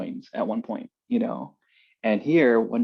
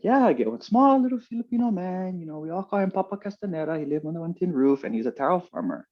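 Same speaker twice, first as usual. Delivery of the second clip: auntie in pidgin; 7 semitones higher than usual. Retold or imitated.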